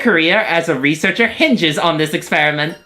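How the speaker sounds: lightly voiced lecturing researcher; Rosie voice. Rosie explaining the experiment to the trainer, light character voice. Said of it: "Your Rosie voice is so cute".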